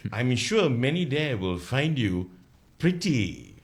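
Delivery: slow recited verse; poem recital. Shown as a demonstration. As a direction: recite the ditty slowly. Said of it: "Okay, I'm gonna start now".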